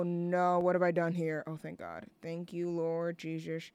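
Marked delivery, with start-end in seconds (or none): 1.5-3.7 much softer relieved sigh; hushed thank God. Real, not acted. Relieved after a scare.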